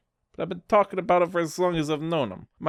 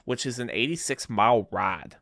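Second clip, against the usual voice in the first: bad Boston accent, drifting Southern; a weak attempt at a Boston accent. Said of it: "I'm trying to do a Boston accent".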